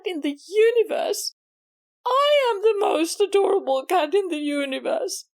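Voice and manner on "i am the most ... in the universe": indignant claim. Acted. Susie angrily claiming the title back from Miss Maggie. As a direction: snap the boast back as your own.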